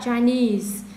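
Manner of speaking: "Chinese" stressed on the final "-nese"; teacher's model of "Chinese", last syllable stressed; stress on second syllable. Shown as a demonstration. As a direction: demonstrate "Chinese" with weight on "-nese". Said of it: "Thì mình nhấn chỗ ni như thế này".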